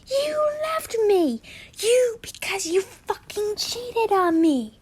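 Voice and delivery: put-on aggrieved girl voice, climbing high. Girl in a bitter row with an ex, high voice. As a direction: accuse in a high, drawn-out girl voice. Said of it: "girl voices".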